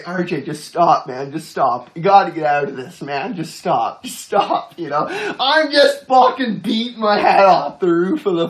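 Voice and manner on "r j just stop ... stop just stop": low, softer mock pleading; understated imitation of a tearful plea; almost in tears. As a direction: beg him to stop, retold with mild distress. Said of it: "almost in tears".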